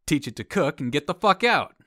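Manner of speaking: punchline. Retold or imitated. Punchline of Tully's joke.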